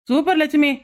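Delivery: mock congratulations; sarcastic praise. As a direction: praise her with biting irony. Mocking praise of cow's damage. (கிண்டலான பாராட்டு)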